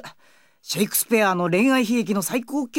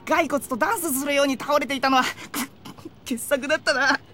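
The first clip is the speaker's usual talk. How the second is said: higher, words bubbling with laughter; laughing while talking; 6 semitones higher than usual. Real, not acted. Boy teases the girl about her fall, laughing. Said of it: "そんなに笑うことないじゃないですか".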